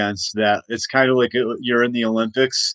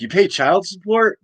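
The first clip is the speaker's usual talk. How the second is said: incredulous George Washington; 9 semitones higher than usual. Retold or imitated. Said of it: "He'd be like".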